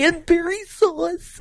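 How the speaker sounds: high, slow whimpering voice; high wailing character; high whiny mock. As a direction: whine it like a crybaby. Mocking line, crying sound.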